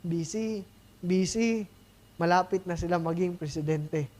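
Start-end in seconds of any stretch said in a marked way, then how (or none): 0.0-1.6 mock busy excuse. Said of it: "pag may mga in-invite tayo na".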